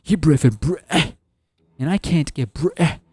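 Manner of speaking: hammed-up British accent, cutting Brit- short; failed British accent, pitch lifting; attempted British accent. Shown as a demonstration. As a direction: put on a bad British accent. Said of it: "to get that British accent, but I can't".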